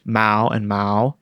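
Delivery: Mao and Mao said slowly, each with its own distinct Mandarin tone; slow, careful tonal contrast on Mao and Mao. Shown as a demonstration. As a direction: set the two tones of Mao side by side. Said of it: "here and hair sound similar but are completely different".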